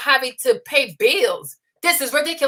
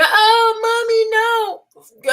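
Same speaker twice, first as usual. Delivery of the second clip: put-on high whiny kid crying for mommy; a child whimpering no at mom; mock whiny kid; 7 semitones higher, much slower than usual. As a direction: whine it like a crying little boy.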